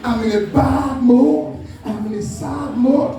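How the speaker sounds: slow, dragging mock sulk; slow, heavy, sulky complaint; mock gloomy man. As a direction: drawl it out like a moping man. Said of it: "a man that is so sad".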